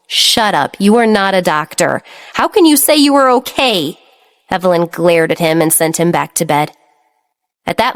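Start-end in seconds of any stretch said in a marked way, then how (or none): 0.1-4.0 exasperated scolding, rising. Acted. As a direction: cut him off, annoyed. Sister scolding stubborn brother.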